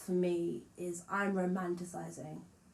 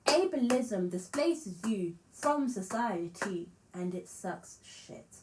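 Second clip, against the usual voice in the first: slow and deliberate; 2 semitones higher, slower than usual. Shown as a demonstration. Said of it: "re-says line deliberately".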